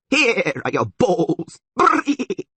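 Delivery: high, loud, drawn-out bleating shout; bleating attack. A narrator's reading. Creature hurls iron balls at them, bleating. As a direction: stretch it out into a goat's bleat. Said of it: "The creature bleated and aimed again".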